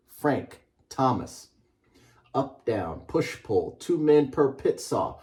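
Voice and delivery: measured storybook read-aloud. Acted. Author reading his book to a class, measured and rhythmic. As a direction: read it like a picture book to children.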